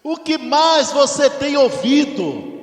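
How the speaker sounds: slow, loud, high call to the congregation; preaching shout. Acted. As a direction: call it out to the whole church. Preacher calling out to church. (pregador clamando alto e devagar para a igreja)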